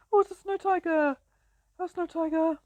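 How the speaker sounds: thrilled to spot it; excited discovery. Real, not acted. Player spotting a snow tiger, high excited shout.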